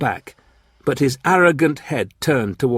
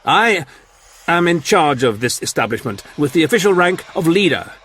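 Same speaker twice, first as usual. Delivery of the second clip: proud, raised voice; dignified; 7 semitones higher, 3 dB louder than usual. A narrator's reading. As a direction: state it with regained dignity. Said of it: "Clent's old dignity returned".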